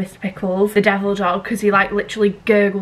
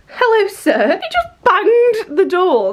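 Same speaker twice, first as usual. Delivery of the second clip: laughing greeting; 9 semitones higher, 4 dB louder, slower than usual. Real, not acted. Dog bursts in through the door.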